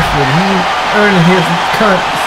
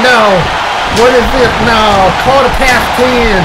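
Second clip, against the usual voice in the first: outraged disbelief; 5 semitones higher than usual. Acted. Commentator outraged at the result.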